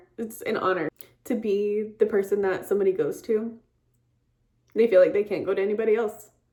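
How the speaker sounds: tearful crying, voice breaking through the words. A nurse tells of past work with patients, crying while speaking. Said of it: "Stop crying".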